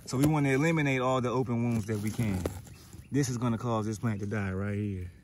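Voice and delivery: breathless after swimming laps; out of breath. Real, not acted. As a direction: talk while still catching breath. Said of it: "I'm a little out of breath".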